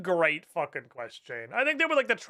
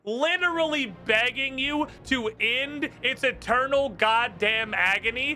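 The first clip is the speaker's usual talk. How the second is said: slow, emphatic, higher-pitched rant; getting heated; 6 semitones higher than usual. Real, not acted. Streamer ranting at the game's unfair evil ruling, heated. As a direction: hammer each point in real frustration. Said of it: "I'm getting heated".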